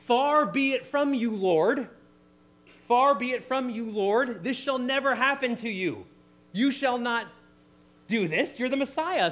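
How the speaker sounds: high, loud acted protest; emphatic rebuke. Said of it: "he emphatically rebuke him".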